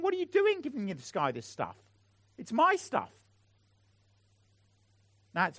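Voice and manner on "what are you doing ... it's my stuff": indignant brother, pitched higher; a mild mock outburst of jealousy; older brother protesting to his father, mildly indignant; furious older brother. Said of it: "Partly why he's so furious".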